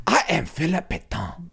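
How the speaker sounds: high, deliberate mock French accent; Philip Pétain. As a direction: announce yourself in a badly faked French accent. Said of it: "I'll, I'll, I'll nail this".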